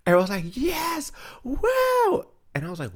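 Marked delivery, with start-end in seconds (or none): 0.6-2.2 high mock cheer; mock excited cheer. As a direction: squeal it like a fake-thrilled crowd. Mimicking a cheering class.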